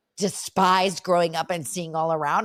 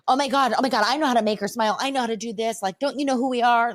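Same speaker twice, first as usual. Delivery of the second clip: lightly frantic, pitched-up pushy mother; crazy stage mother; 4 semitones higher, faster than usual. Retold or imitated. Stage mother insisting she can handle it, mildly frantic. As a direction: act a touch frantic and self-important. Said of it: "crazy person".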